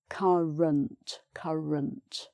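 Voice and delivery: "current" with a clear R starting the second syllable; "current" said slowly with the middle R pronounced; R sounded. Shown as a demonstration. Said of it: "So the R is sounded there".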